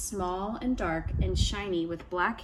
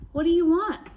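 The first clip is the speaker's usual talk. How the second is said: trickster tale voices; 9 semitones higher, 8 dB louder than usual. A narrator's reading. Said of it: "asked his mother".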